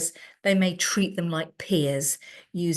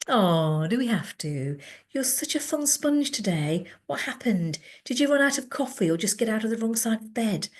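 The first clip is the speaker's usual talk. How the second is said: mock serious teasing; 3 semitones higher than usual. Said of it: "with a mock serious expression".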